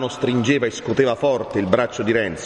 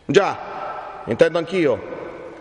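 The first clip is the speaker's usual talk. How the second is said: put-on high, troubled young man cutting in; distraught interruption; 6 semitones higher, much slower than usual. A narrator's reading. Renzo interrupts the friar's warning, distraught. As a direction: break in high and upset. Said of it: "interruppe Renzo, stravolgendo gli occhi".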